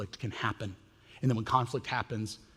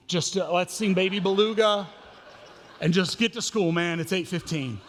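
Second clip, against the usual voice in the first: laughing surrender, louder; laughing giving up; 4 semitones higher, 4 dB louder than usual. Retold or imitated. Father giving up on the God questions, laughing. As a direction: laugh and give up on theology, just sing. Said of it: "I don't even know what to deal with anymore".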